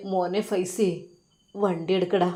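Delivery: soft, quiet, tearful order; tearful father. Acted. Father telling Faisal to start the car, softly tearful. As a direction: give in through tears. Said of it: "ഉപ്പ കണ്ണീരോടെ പറഞ്ഞു".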